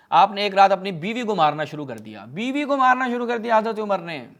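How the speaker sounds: rising indignant emphasis. Real, not acted. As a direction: hammer home the outrage. Indignant retelling of beating.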